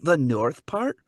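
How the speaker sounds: unsure fake Scottish, rising at the end; tentative Scottish bluff. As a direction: guess hopefully in a put-on Scottish accent. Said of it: "do your Scottish accent".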